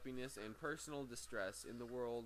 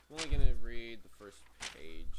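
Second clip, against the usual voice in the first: loud, raised voice over the room; calling out loudly; 2 semitones lower, 16 dB louder than usual. Real, not acted. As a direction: call it out so they hear you. Calls out to someone interrupting.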